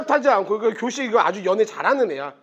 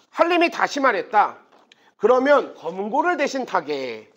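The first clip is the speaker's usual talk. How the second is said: projected, slightly raised reading-aloud voice; measured literary narration; story narration; 3 semitones higher, 3 dB louder than usual. A narrator's reading. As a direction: read the tale out clearly to a class. Reads the novel aloud.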